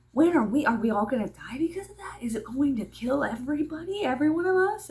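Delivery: mock frightened child, breaking to a whisper; a child's panicky questions, dropping to a whisper. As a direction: act a kid scared of dying, then whispering. Child frightened about dying.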